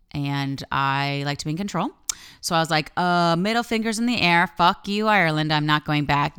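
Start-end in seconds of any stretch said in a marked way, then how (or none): 3.0-6.4 defiant rant. Retold or imitated.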